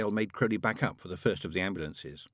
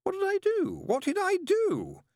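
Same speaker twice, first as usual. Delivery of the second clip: high, anguished cry of dismay; a demon panicking at his own handiwork; frantic demon voice; 3 dB louder than usual. Acted. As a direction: repeat it high and desperate. Crowley frantic over chaos.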